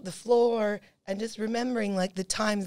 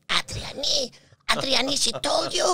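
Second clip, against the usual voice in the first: higher, louder, stunned repeat of the name; as if she can't believe her own ears; shocked disbelief; 5 semitones higher, 5 dB louder than usual. Retold or imitated. Shopkeeper hearing who sent them, in shocked disbelief.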